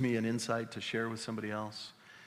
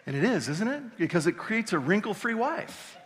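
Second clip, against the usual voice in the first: higher and louder, pushing the joke home; preacher hyped on the punchline; fired-up preaching; 9 semitones higher, 5 dB louder than usual. Real, not acted.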